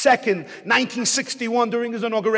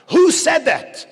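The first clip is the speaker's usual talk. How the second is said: loud, higher outraged yell; teacher screams; 6 semitones higher, 8 dB louder, slower than usual. Retold or imitated. Teacher yelling at the class after an insult, loud. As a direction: bark it out as the stunned teacher. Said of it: "He screams out".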